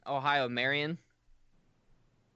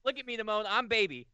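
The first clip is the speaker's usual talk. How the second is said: put-on baby voice; 5 semitones higher, faster than usual. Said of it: "I'm a baby".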